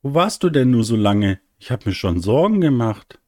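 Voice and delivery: höhere, leicht vorwurfsvolle Mutterstimme; besorgte Mutter. Acted. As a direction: frag dein Kind besorgt, wo es war. Besorgte Mutter empfängt ihr Kind. (mütterlich besorgt)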